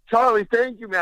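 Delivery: high, strained thanks fighting a laugh; thanking an old friend while holding back laughter; strangled thanks. Retold or imitated. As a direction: squeeze the thanks out past a laugh. Choking back laughter and tears.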